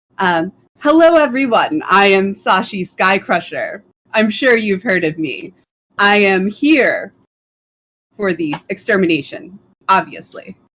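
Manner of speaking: slow, bold, full-swagger declaiming delivery. After walking to the front, an orc addresses the whole room, boldly. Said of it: "Just kind of slaps it to the side in a very like the entrance with the subtlety of a fireworks display. She's stomping in, and she stands at nearly 7 feet tall with rippling green muscles and a striki".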